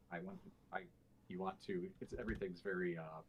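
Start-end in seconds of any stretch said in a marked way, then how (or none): 2.2-3.2 separate, clipped-off words. Shown as a demonstration. Coach demonstrating clipping against legato, clipped individual words. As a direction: cut each word off quickly. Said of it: "clipped off very quickly".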